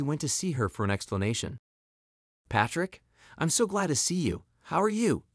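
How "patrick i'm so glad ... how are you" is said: high-pitched, delighted hello; glad greeting. A narrator's reading. Andrea greeting her ex at work, glad greeting. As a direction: greet an old flame with mild gushing. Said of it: "she greeted him".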